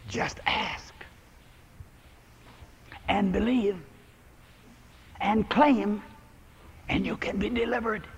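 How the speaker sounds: soft counsel. Retold or imitated. Bertha counsels alcoholic softly.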